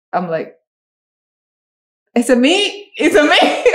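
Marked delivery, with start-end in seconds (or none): 2.1-3.6 laughing through the line. Retold or imitated. Recalls a flubbed line on set.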